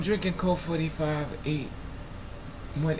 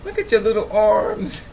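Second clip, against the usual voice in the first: louder, higher cooing over little arms; gushing baby talk; 5 semitones higher, 6 dB louder than usual. Retold or imitated. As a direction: fawn over him like over a toddler. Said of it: "I have a bad habit when I see young, young people".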